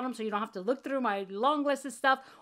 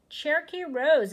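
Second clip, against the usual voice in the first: louder, higher, thrilled; excited announcement; 5 semitones higher, 6 dB louder than usual. Real, not acted. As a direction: call the name out with glee. Repeating the winner's name.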